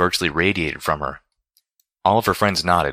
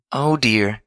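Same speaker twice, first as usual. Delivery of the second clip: higher, pained little "oh dear"; wincing dismay; 6 semitones higher than usual. A narrator's reading. Rarity dreading another song, wincing dismay. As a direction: wince as you say it. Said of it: "Winced Rarity".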